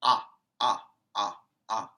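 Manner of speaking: short open "Ah" sound for the letter O. Shown as a demonstration. Teacher modelling the O sound for kids, short open ah. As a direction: sound out "ah" clearly, twice. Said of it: "What sound does O make?".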